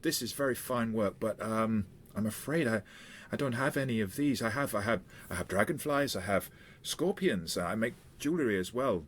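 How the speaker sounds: a hint of the eager shopkeeper; insect seller. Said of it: "she said".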